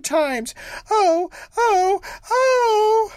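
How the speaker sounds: high, loud, slow lament; wronged young wife sobbing out her lament, high and wailing. A narrator's reading. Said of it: "cried and sobbed as if her heart would break".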